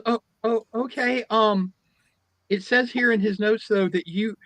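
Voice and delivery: high, hesitant, polite assistant voice; nervous assistant. Retold or imitated. Assistant reading the periodontist notes, high and hesitant. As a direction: tiptoe through the bad news. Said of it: "the girl goes".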